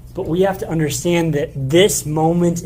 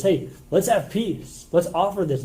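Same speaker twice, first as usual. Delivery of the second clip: gentle peace offering. Retold or imitated. King inviting divided Israel back, slow and gentle. Hezekiah offering an olive branch.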